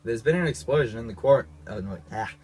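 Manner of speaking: a bad, lightly done computer voice; robot voice. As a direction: play a stiff ship's computer. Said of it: "that's a terrible robot voice".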